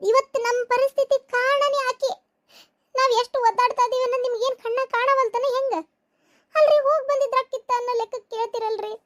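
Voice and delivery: high-pitched, indignant pleading; upset reproach. Acted. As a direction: scold them for not seeing your suffering. Upset quarrel over sick daughter.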